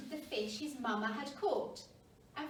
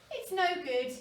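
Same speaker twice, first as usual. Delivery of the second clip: Pipkin giving up; 6 semitones higher, 7 dB louder than usual. A narrator's reading. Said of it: "he said at last".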